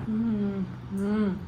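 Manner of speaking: chewing while talking; speaking between bites; mouth full. Real, not acted. Seen 0: Woman bites pastry at -2, visibly chews until about 1.4 s.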